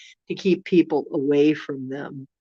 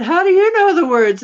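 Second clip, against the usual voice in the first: loud retold question; 13 semitones higher, 11 dB louder than usual. Asking geese loudly.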